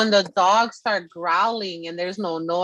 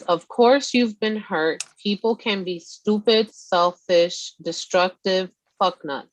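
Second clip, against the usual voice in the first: reading a card. Acted. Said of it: "It says".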